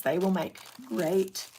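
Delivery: talking through the hiccups; words broken by a hiccup. Real, not acted. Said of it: "excuse me, I got the hiccups".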